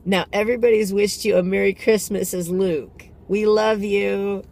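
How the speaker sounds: high, loud pleased mom voice; satisfied mom. Retold or imitated. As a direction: wrap it up like a proud mother, slowing on we love you. Mom voiced, wrapping up happily.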